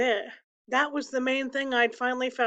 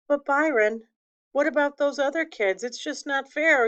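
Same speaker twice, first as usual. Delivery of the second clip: mildly heated, higher-pitched pleading; upset protest; 4 semitones higher, 4 dB louder than usual. Acted. Kenny protesting to his brother about the other kids, upset. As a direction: raise pitch a little and protest the unfairness.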